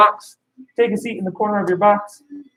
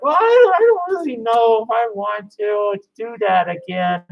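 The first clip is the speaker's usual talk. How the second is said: put-on reluctant kid. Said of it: "then they're like".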